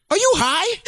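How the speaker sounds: high, laughing mock mom; laughing question. The friend's mom asking the stoned wife, laughing. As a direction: ask it through laughter.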